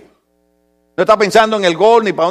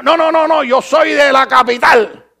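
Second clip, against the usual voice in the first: mock proud denial; 3 semitones higher than usual. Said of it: "Todo el mundo es de la capital".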